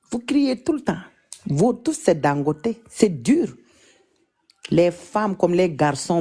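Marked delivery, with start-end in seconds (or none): 0.1-1.0 soft whisper. Shown as a demonstration. Showing Cameroonian viewers how to speak softly, whispered. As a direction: whisper it, higher, no voice at all. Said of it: "il faut parler doucement".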